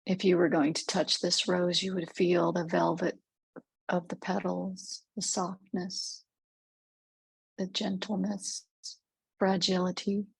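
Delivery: measured meditation voice with long pauses; guided meditation. Real, not acted. Guide leads listeners through a rose clearing visualization, calm meditative delivery. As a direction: guide gently, leaving space between phrases.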